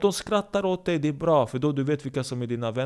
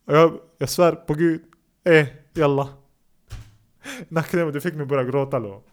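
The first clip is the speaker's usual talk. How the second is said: mock crying; 6 dB louder than usual. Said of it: "det är bra att du bölar".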